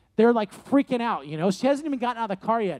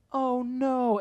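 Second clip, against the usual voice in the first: dismayed; 4 semitones higher than usual. Retold or imitated. Helpers dread the car reversing.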